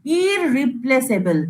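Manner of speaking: ইররিপ্লেসেবল drawn out syllable by syllable; slow demo word. Shown as a demonstration. Teacher to students, slow careful demo word. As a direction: spell out ইররিপ্লেসেবল slowly for students. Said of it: "ভালো করে দেখ আমি কি বলছি".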